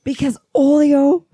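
yelling on the mic. Real, not acted. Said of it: "if you're gonna yell on the mic".

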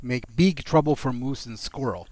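put-on light Russian accent as Boris; a hint of Boris's Russian villain accent. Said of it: "wish I could do a better Russian accent".

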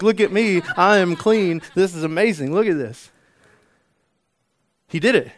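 loud, high-pitched, elated outburst; acting out overjoyed disbelief, at full voice; exuberant testimony. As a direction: shout the good news to a neighbour. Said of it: "and this is the language".

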